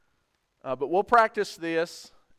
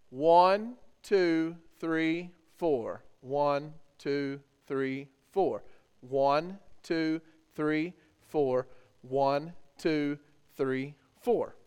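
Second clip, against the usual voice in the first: counting out rhythm; 2 semitones lower, much slower than usual. Shown as a demonstration. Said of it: "So I'm gonna count it out for you first".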